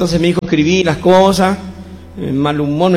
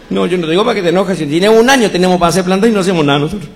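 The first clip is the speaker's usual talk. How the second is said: fast, louder, insistent grandfather; quick, lively grandfather rebuttal; 3 semitones higher, 4 dB louder, faster than usual. Acted. Grandfather argues the point with his wife, fast and insistent. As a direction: hurry the argument to her.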